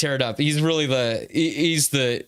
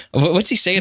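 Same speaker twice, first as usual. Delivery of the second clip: Peter Cullen voice; 3 semitones higher than usual. Retold or imitated. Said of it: "Peter Cullen".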